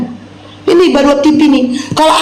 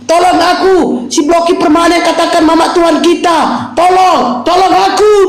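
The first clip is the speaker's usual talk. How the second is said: mock plea for help; 3 semitones higher than usual. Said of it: "Minta bantuan dari dia".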